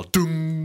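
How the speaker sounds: bell sound. Acted. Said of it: "There's a Buddhist prayer bell".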